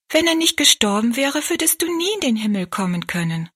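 a hint of a small girl explaining with conviction; girl assuring the maid that Jesus loves her; earnest little girl. Child Rosalie explains earnestly.

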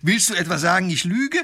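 high, loud affronted challenge; indignant outrage. Acted. Wife rounding on her doubting husband, outraged. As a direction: fire it back, offended. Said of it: "wird die Frau noch aufgeregter".

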